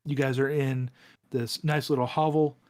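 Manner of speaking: measured narration with long suspenseful pauses; game master scene setting. Acted. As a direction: set the scene phrase by phrase, drawing it out.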